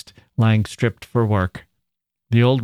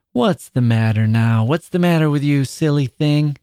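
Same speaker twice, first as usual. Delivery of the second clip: forced gentleness; 5 semitones higher than usual. Acted. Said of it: "much agitated, with an unreal gentleness".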